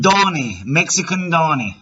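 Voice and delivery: put-on a loose, wandering Mexican accent. Prank caller fooling a scammer in a put-on Mexican accent. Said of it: "My Mexican accent is all over the place".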